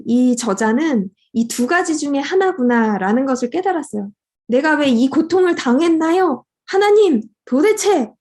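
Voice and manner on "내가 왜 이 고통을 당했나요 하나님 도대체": crying out to God. Retold or imitated. Author cries out to God over his son's suffering, anguished rising cry. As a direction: plead up to heaven, voice climbing. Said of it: "이렇게 부르짖는 그 외침".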